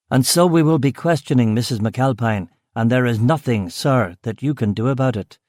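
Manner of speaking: firm steady authority; mild official firmness; authoritative. Acted. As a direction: lay down the law calmly. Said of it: "I said with authority".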